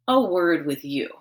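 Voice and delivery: a word with you, with "word" leaned on; stress on word. Acted. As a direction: lean on "word". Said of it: "she emphasized the word word".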